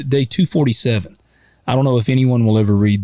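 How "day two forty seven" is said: lightly dramatic movie narration. Acted. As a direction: read it like a grave film voiceover. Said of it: "You still read that in your movie voice".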